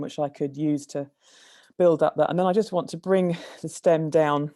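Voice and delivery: out of breath from the stairs. Real, not acted. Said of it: "like, out of breathness".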